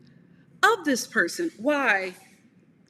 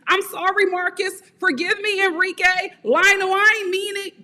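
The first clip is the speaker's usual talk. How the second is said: higher-pitched pleading apology, hammed up; mock begging; 5 semitones higher than usual. Woman begging her boyfriend on his voicemail, mock pleading. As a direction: beg forgiveness in a raised, put-on voice. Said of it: "begging him on his voicemail".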